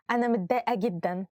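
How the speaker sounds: saying upset while giggling; can't keep a straight face; laughing through it. Shown as a demonstration. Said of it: "I cannot say it with a smiling face".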